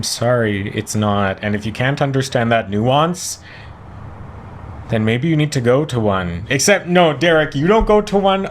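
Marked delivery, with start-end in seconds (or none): 6.5-8.5 sarcastic. Pretend. Sarcastic jab, high and loud.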